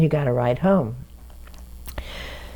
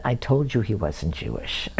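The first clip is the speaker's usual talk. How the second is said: dry told-you-so; 4 semitones lower than usual. Retold or imitated. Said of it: "my father looked at me and said".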